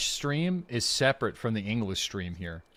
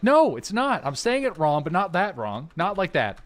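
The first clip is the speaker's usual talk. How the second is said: retorting to chat; 6 semitones higher than usual. Retold or imitated. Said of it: "I'm like".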